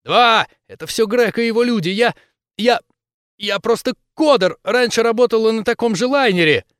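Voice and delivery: high, loud, hurried pleading; terrified captive rushing to explain; panicked babbling. Acted. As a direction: blurt it out in terror.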